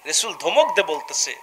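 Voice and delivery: fiery waz preaching. Acted. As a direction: preach to the crowd in full force. (উচ্চস্বরে ওয়াজের সুর)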